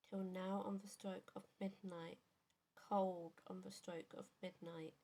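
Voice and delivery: measured poetry reading with pauses between lines; poem recitation. Acted. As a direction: recite a narrative poem, line by line. Reads favourite poem aloud.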